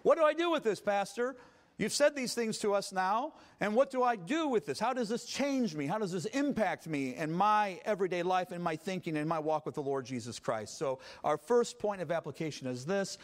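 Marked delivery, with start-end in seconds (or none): 0.0-10.8 a hint of an earnest congregant asking; lightly voiced churchgoer's question; puzzled listener. Preacher voices the congregant asking how to apply it, mild puzzlement. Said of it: "we're asking the question".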